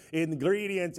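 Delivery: lightly voiced vampire count; a hint of cartoon count accent. Shown as a demonstration. Practising with the congregation in a light count-like voice. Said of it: "say it in a count-like voice".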